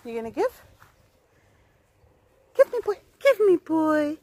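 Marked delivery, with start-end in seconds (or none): 2.6-2.9 quick, high-pitched coax; high dog talk. Real, not acted. Owner asking Zeus for the ball, quick high chirp. 3.2-4.2 drawn-out, slow coaxing. Real, not acted. Owner asking Zeus again for the ball, slow stretched coax.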